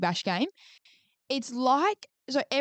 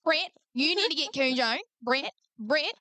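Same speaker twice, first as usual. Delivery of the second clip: Kath and Kim impression; 5 semitones higher, slower than usual. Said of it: "Kath and Kim vibes".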